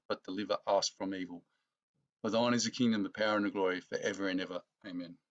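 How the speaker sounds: evenly recited Lord's Prayer, falling away at the end; prayer recitation. Acted. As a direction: recite a familiar prayer in measured phrases, softening to the Amen.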